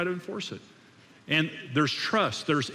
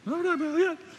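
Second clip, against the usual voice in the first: much higher, sharp protest; upset high voice; 14 semitones higher, faster than usual. Shown as a demonstration. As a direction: show how high the voice jumps when upset. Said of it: "when I get upset, my voice goes up".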